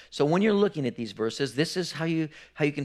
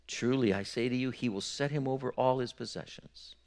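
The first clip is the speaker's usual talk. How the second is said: a hushed, measured reading of the verses; scripture reading; 3 dB quieter than usual. Acted. Preacher to his congregation, reading scripture softly and gravely. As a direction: read the passage softly and gravely to the church. Reads Matthew aloud to congregation.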